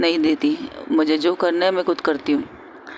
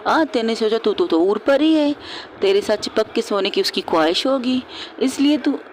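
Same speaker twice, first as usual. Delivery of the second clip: higher-pitched mock telling-off; acted scolding; 4 semitones higher than usual. Friend telling off her friend's supposed admirer, scolding. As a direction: scold with a raised pitch, understated anger. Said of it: "उज़ैफ़ा को डांट रही है".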